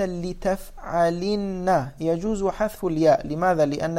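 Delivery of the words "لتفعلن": "لتفعلن" drawn out with kasra on the lam; very slow demo. Shown as a demonstration. Teacher showing students the feminine form, very slow. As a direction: spell out "لتفعلن" syllable by syllable. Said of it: "الآن إذا قلت".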